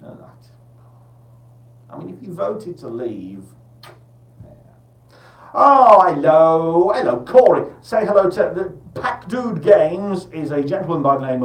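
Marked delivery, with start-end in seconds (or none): 5.5-7.7 delighted greeting. Real, not acted. Greeting a listener on air.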